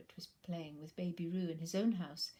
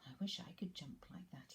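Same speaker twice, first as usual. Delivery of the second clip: quiet thought; 2 semitones lower, 8 dB quieter than usual. Acted. Pooh thinks, softly.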